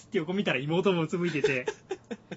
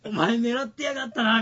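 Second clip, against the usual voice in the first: laughing; 8 semitones higher, 9 dB louder than usual. Retold or imitated. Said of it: "みたいな。".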